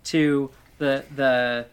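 mock preacher announcing the hymn; hammed-up preacher calling out verses. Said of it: "you sound like you're a preacher asking us to turn to hymn".

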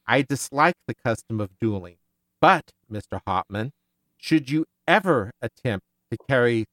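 steady read-aloud of a novel passage; story narration. Acted. Host reading a quote from the novel to listeners, narration voice. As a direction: read the book passage evenly and clearly.

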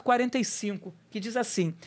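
ordinary talk

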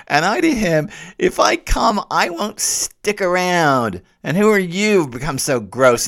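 dramatic pilgrim reading, high and loud. Acted. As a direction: declaim the pilgrim's lines with high, loud force. Reads Dante's dialogue dramatically.

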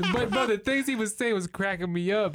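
laughing while talking. Real, not acted. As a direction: still cracking up as he speaks. Still laughing after story.

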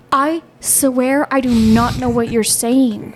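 slow, drawn-out exasperated insistence. Retold or imitated. Wife retelling her plea to a mumbling husband, exasperated. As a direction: spell it out word by word, slowly.

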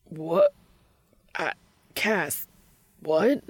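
high, loud blurt breaking into stammers; flustered shock. A narrator's reading. Dean, engulfed by panic, answers Cass, flustered. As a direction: sputter in disbelief, word by word.

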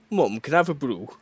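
lightly mimicked Northern English child; mock Northern English, everyday voice; Northern English kid. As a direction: ask casually in a Northern accent. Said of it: "not speaking with a northern accent".

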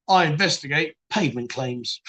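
lightly acted low, sober official; deadpan job admission. Claims detective telling a stranger his job, mock deadpan. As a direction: state it low and straight, for comic effect.

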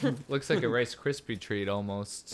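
chewing while talking; words round candy in the mouth; eating sour candy. Real, not acted. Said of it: "we were just chewing".

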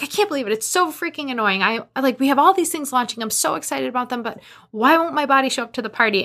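fired-up venting. Retold or imitated. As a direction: rattle it off, all worked up and exasperated. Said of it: "I'm, like, all fired up talking to Michael".

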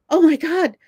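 high, loud, breathless gush; giddy schoolgirl. Retold or imitated. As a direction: squeal it like a starstruck schoolgirl. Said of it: "I was like a schoolgirl".

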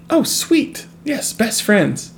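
high-pitched pretend delight; mock gushing. Imagining an instant best friend, mock gushing. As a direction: gush slowly over a new best friend.

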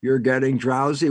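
lightly imitated hypnotist, drawn out; a hint of slow hypnotist lulling; hypnotist's patter. Speaker mimics hypnotists putting someone to sleep, lightly drawn-out patter.

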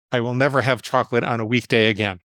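measured, evenly spoken rule; deliberate vow. Retold or imitated. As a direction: lay the rule down deliberately, word by word. States his rule, then repeats it.

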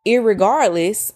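slow rising "Irregardless"; drawn-out defiant word. Shown as a demonstration. Defying the dictionary, slow drawn "Irregardless". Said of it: "I don't wanna be in the dictionary".

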